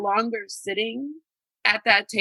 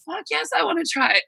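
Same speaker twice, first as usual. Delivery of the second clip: excited yell; 7 semitones higher, faster than usual. Retold or imitated. Retold eager reply to offer.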